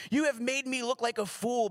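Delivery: understated angry outburst, not a full yell; mild shout. Acted. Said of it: "Balaam shouted".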